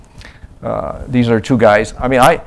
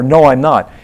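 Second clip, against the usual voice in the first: loud, higher mock refusal; imitated denial; 3 semitones higher, 7 dB louder than usual. Missionary acting the non-Christian's reply, loud. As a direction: say no flatly and loudly.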